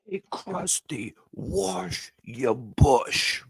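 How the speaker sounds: high, drawn-out call from the crowd; slow, high-pitched heckle from the audience; eager fan heckling. Retold or imitated. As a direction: pitch it up and stretch every word like a fan shouting at the stage. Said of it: "everyone in the crowd's like".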